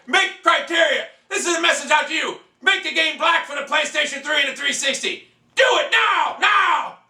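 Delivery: high, insistent fan plea at full pitch; emphatic high-pitched call-out; shouted demand. Real, not acted. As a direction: order the developer, climbing to a yell. Shouted message to the game developer.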